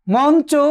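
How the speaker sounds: মঞ্চ with a clear n before চ; dental n sound. Shown as a demonstration. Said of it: "দন্ত নয়ের মতো উচ্চারণ হবে". (মঞ্চ-এ ঞ-র উচ্চারণ ন-এর মতো)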